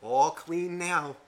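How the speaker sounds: mock-innocent slow announcement; retold gleeful grin. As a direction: draw it out with a pleased smile. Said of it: "he smiles and goes".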